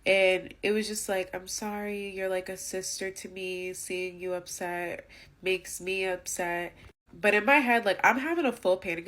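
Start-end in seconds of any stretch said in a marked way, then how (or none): 1.3-2.1 mock apology. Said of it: "no emotion on her face". 2.1-3.7 hollow mock sympathy. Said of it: "no emotion on her face at all". 3.7-6.7 mock apology. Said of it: "no emotion on her face".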